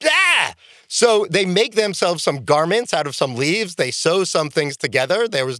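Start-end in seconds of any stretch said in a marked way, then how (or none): 0.0-0.5 mock gasp. Adam and Eve discover nakedness.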